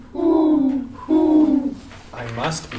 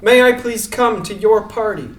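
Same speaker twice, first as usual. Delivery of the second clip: calling out. Acted. Rabbit calls down to mice.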